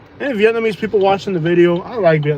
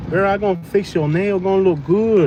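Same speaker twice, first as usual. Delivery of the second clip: mock Vietnamese accent; 2 semitones higher than usual. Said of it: "that Vietnamese accent".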